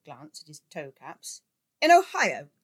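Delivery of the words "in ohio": much higher, loud shout. A narrator's reading. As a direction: bellow it triumphantly. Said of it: "the editor shouted".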